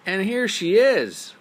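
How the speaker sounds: high, loud squeaking cub; Baby Bear's squeak. Acted. Baby Bear finds his bed used, high squeak.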